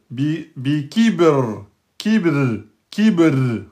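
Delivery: kibr with a light, thin r after the kasra; bi kibr, a thin unrolled ra with the qalqala on ba. Shown as a demonstration. Teacher drilling the thin ra, a light r in kibr. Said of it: "c'est un ra aminci".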